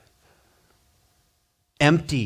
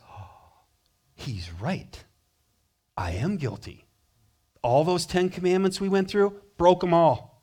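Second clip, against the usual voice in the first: soft, sincere realization of guilt; convicted; 3 dB quieter than usual. Pretend. Preacher voicing a repentant sinner, soft and sincere. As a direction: admit it quietly, humbled. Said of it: "The right response is".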